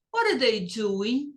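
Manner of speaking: "what are" joined into one word before "they doing"; linked words. Shown as a demonstration. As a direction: run "what are" together as people speak. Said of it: "Junta aqui". ("what are" junto, como se fala)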